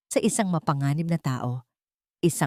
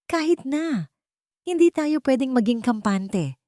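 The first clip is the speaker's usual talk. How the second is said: high, sharp near-yell; near shout; 9 semitones higher than usual. A narrator's reading. Wife almost shouting at her husband, high near-yell. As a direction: Isabel almost shouting back, raise the voice. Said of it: "Halos pasigaw na sagot ni Isabel".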